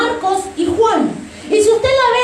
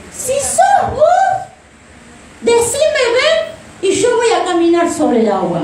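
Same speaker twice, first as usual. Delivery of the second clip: eager Peter; 2 semitones higher than usual. Pretend. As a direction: voice Peter begging to walk on water. Peter voiced, eager to walk.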